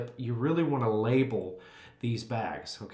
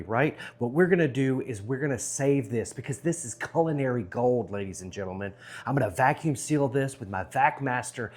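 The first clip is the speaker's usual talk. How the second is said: loud upbeat barbecue host; big cheerful pitch to the camera; jolly loud grill dad; 3 semitones higher, 3 dB louder than usual. Acted. Energetic vlog intro.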